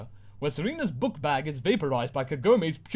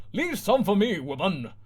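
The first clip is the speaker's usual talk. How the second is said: leering; 7 semitones higher, 4 dB louder than usual. Acted.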